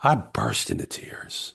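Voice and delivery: low, slow and choked up, fighting tears; holding back tears. Real, not acted. Remembering a father in the park, slow and tearful. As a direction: say it as if the memory still stings. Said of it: "I try not to cry when I tell the story".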